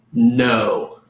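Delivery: one word, drawn out carefully; slowed down. Shown as a demonstration. Teacher jokingly demonstrating a difficult Spanish word, slowed down. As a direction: stretch it out as if it were hard to understand. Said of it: "I'll slow it down".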